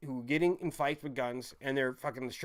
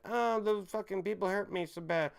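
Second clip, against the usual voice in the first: mock whining; 5 semitones higher than usual. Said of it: "bitching and crying that".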